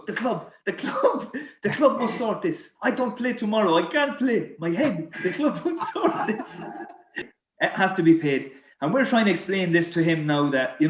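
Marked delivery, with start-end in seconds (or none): 0.0-6.6 high, hammed-up French protest, laughing; French accent. French teammate demands the club sort it, high French-accented protest. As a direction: imitate an outraged French footballer, pitched up, cracking up. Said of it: "this bill with his French accent".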